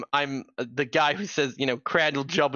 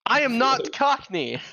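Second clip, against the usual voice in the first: higher, mock-indignant wizard; indignant character voice; 6 semitones higher than usual. Wizard denying to a heckling player that he is Cockney, mock-indignant. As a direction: play the offended wizard. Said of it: "forget my fucking voice for him".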